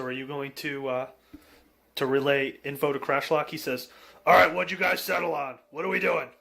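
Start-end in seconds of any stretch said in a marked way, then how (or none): 4.2-6.3 a hint of a brisk character, pitched up; louder, higher in-character questioning; lightly voiced game character. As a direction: lightly play the character checking on the party. Game master voices the returning character.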